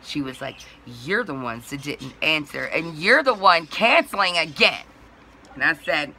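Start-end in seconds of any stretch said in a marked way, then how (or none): 1.0-4.9 building from usual level to louder scolding; retold accusation. Dispatch woman blaming customer for canceling, mock scolding. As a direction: imitate an accusing caller, pressing harder.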